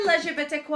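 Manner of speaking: L G B T Q blended into one playful word, "lezha-beti-kwah"; L G B T Q fancied up as "lezh-uh-bet-ick-wah"; fancy pronunciation. Shown as a demonstration. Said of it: "We try and fancy it up".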